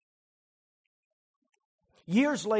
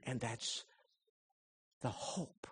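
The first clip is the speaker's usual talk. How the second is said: soft, near tears; moved preacher, voice cracking; choked up; 5 semitones lower, 11 dB quieter than usual. Real, not acted. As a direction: let the voice break with feeling. Preacher moved at sermon close.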